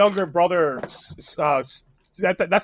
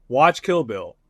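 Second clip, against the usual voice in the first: retold advice; 4 semitones lower than usual. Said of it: "it's very deep".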